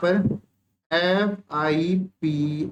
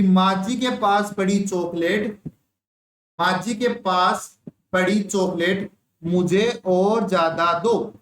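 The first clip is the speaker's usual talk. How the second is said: put-on slow child mnemonic; slower than usual. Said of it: "बच्चा क्या बोल रहा है".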